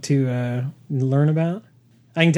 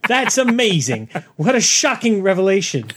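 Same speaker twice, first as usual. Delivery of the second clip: sarcastic amazement; 5 semitones higher than usual. Acted.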